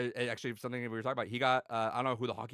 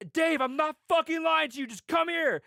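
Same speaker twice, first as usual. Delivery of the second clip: imitating a loud, much higher plea; hammed-up begging to be believed; exasperated pleading; 10 dB louder than usual. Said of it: "He's like".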